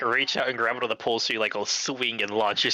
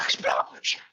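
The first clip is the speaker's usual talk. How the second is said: whispered explosion; slower than usual. Pretend. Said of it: "But I can't yell".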